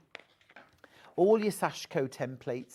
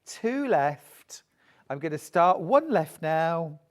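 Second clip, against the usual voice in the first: auctioneer; 2 semitones higher, 4 dB louder than usual. Real, not acted. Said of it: "Sound like an auctioneer".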